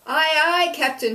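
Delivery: high, loud sailor's answer; loud eager reply. A narrator's reading. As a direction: snap to it, loud and keen. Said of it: "she said".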